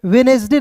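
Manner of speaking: वेडनेसडे in three syllables, "we-nes-day"; वेडनेसडे read as it is spelt; pronunciation to avoid. Shown as a demonstration. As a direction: give वेडनेसडे its full middle syllable. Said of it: "नहीं पढ़ना है दोस्तों".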